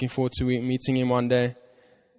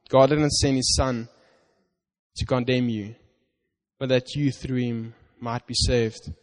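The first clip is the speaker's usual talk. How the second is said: scripture reading. Acted. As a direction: read it as God's promise to you.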